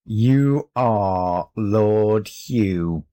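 1 slow, gloating. A narrator's reading. Cat in boy's body repeats.

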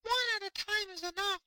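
very high, small squeaky fish voice; tiny fish voice. Acted. Fish voice continues.

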